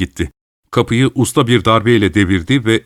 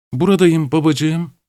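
high-pitched; 6 semitones higher than usual. Acted. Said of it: "hiç beklenmedik bir şekilde tiz".

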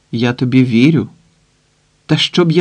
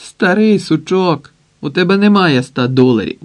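sulky retort; 6 semitones higher, 5 dB louder than usual. A narrator's reading. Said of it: "набудючилася Зіна".

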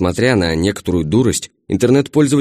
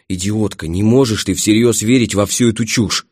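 wailing. Acted. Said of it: "заголосила я".

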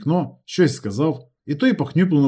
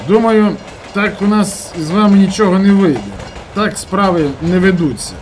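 firm farewell; 5 semitones higher, 4 dB louder than usual. Acted. Narrator leaving, declaring firmly.

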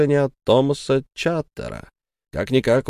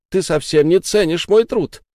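hurt angry shout; 7 semitones higher, 4 dB louder than usual. Acted. Sara keeps shouting.

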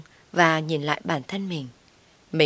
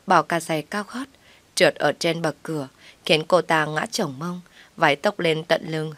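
ordinary talk

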